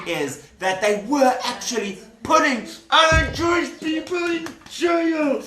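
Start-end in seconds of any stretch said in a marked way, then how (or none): 2.2-5.4 high, projected indignant cry; appalled outcry. Real, not acted. Storyteller tells children of jailed Jewish people, high appalled outcry. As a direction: cry it out in dramatic dismay. Exclaims at the sad outcome.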